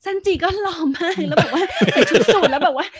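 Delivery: gushing. Real, not acted. Gushing over handsome Sanji.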